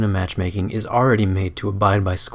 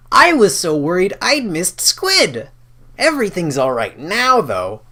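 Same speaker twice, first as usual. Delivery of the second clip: relieved youth; 11 semitones higher, 7 dB louder than usual. Acted. Lear telling himself everything's fine, relieved and high. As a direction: sound like worry just melted away.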